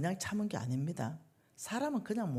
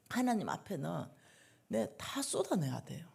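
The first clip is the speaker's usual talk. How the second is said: whisper. Real, not acted. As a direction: whisper the plea. Whispered exhortation. (속삭이며 권하는 목소리)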